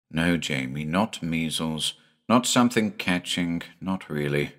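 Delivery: soothing a frightened son; quiet tender father voice; gentle hushed father. Acted.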